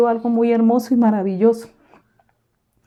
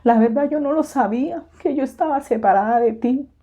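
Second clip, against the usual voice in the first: higher, overcome, breaking thanks to God; tearful thanks; 5 semitones higher than usual. Retold or imitated. Kneeling on the floor thanking the Lord, higher and overcome. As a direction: pray as if trembling with joy on your knees. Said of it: "yo decía".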